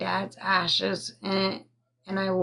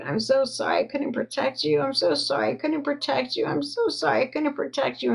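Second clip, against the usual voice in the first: quick pleading apology, rising higher with each repeat; a mild retelling of mom's tearful apology, pitch climbing; imitating mom crying; 6 semitones higher, faster than usual. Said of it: "And she was crying".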